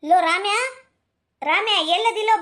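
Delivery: mother yelling for her son. Acted. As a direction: raise the voice to summon him. Mother calls son again louder.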